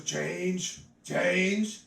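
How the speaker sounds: a mild beggar's plea, repeated; lightly voiced woman begging; beggar asking. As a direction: homeless woman rattling her cup, lightly voiced. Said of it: "she goes".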